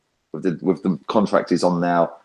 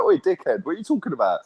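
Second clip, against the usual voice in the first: heckling shout; 9 semitones higher than usual. Retold or imitated. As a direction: yell it up at the owner from the crowd. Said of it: "I'll stand up and be like".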